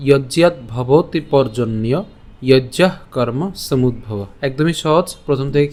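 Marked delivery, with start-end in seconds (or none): 0.1-4.2 slow, measured Sanskrit recitation; reciting the Gita verse slowly for the class. Shown as a demonstration. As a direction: recite each line of the verse slowly and evenly. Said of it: "আজকের শ্লোকটি হলো".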